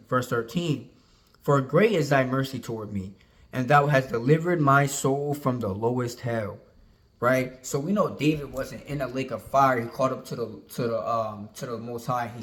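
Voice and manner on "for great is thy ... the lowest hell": scripture reading. Acted. Reads scripture aloud.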